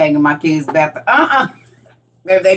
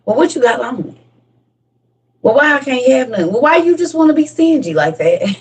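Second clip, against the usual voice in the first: higher whiny complaint; pestering kid; 5 semitones higher than usual. Acted. Kid complaining mom is stingy. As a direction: nag like a kid denied snacks.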